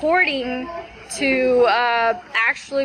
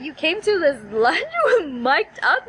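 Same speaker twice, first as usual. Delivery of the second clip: laughing disbelief; 4 semitones higher than usual. Retold or imitated. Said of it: "I'm like".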